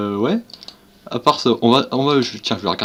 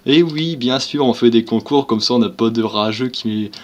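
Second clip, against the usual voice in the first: mock youtuber voice. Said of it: "c'est pas ma voix ça".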